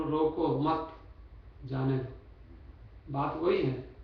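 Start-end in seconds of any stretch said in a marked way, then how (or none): 0.0-2.1 रोको मत joined, break, then जाने दो; pause after मत. Shown as a demonstration. Preacher flipping the sentence's meaning, break after मत. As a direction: hold off जाने दो until after a clear gap behind मत. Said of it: "और अब उसको बोलो".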